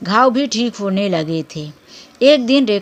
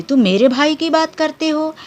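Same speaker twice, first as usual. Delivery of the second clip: raised, higher indignant retort; flaring up angrily; 6 semitones higher than usual. A narrator's reading. Meena flares up at her husband, indignant and angry. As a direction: snap back at the husband, offended. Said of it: "तब मीना भड़क कर बोली".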